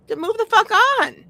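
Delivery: high, loud dismissive blast; exasperated outburst. Real, not acted. Telling pushy strangers to move on, loud high yell.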